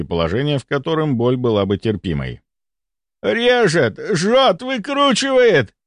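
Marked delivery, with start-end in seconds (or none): 3.2-5.7 high, agonized, word by word; crying out in pain. A narrator's reading. Patient writhing on couch, crying out. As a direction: wrench out each word in pain. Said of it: "кричал он".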